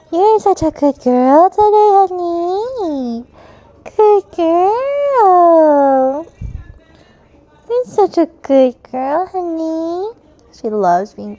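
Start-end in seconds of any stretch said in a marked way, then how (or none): 0.1-10.1 cooing pet talk. Real, not acted. Praising her cat.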